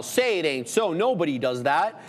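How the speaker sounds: mock disbelief, lightly ironic; sarcastic. Real, not acted. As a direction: feign shock at something everybody does. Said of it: "I'm being sarcastic".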